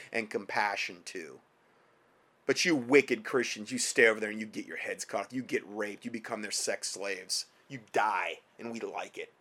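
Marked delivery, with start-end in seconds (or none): 2.4-9.3 mock sneering voice. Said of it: "That's what they're saying".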